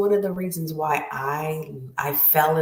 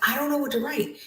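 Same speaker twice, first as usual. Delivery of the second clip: higher-pitched, helpless protest; confused student; 11 semitones higher, 3 dB quieter, much faster than usual. Retold or imitated. Student answering the teacher's order to write, confused. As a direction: plead cluelessness, slightly hammed-up. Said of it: "I was really confused".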